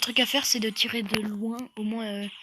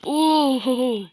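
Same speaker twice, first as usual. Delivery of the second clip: shrieking jackpot winner; 6 dB louder than usual. Real, not acted. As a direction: cry out over a big win. Winning the jackpot in game.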